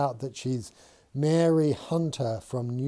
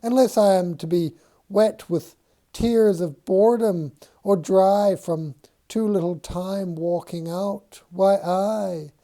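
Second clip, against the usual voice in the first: high, louder shoe voice; high-pitched voice; 6 semitones higher, 4 dB louder than usual. Acted. George voicing the shoe to amuse Mary, high-pitched. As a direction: keep the shoe squeaking, complaining. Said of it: "in a high-pitched voice".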